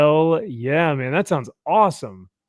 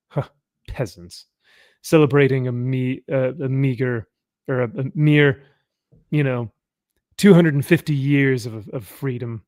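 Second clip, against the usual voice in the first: scoffing cat. Retold or imitated. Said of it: "scoffs at it and goes like".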